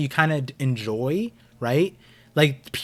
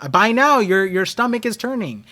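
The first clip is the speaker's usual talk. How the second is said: sinister voice; 6 semitones higher, 5 dB louder than usual. Retold or imitated. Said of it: "I said".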